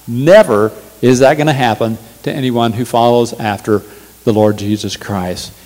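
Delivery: ordinary talk, nothing marked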